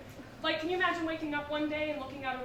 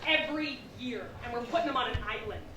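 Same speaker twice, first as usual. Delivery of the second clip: God yells the intern down, much louder; God shouting; 9 dB louder than usual. Retold or imitated. God shouts down the intern angel's objection. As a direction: bellow it like an angry boss in heaven. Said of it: "And God goes".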